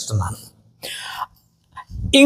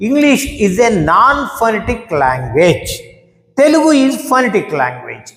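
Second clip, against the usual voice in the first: slow dictation; 2 semitones higher, much slower than usual. Shown as a demonstration. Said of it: "slow dictation".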